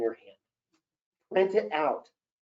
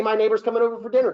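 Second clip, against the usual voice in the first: fast, high, louder thrilled announcement; excited about Brad Pitt; 5 semitones higher, 5 dB louder, much faster than usual. Shown as a demonstration. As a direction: gush that Brad Pitt is coming. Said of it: "Your neighbor's Brad Pitt".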